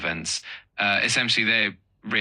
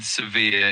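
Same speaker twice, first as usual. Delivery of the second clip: "severe" with the weight on -vere, se- light; stress on second syllable; 3 dB louder than usual. Shown as a demonstration. Tutor modelling the stress for a learner, clear and careful. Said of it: "emphasis on the second syllable".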